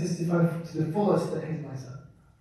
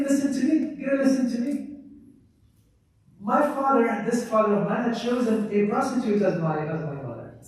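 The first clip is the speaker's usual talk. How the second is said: pleading son; 3 semitones higher than usual. Retold or imitated. Son protesting his case to Umar.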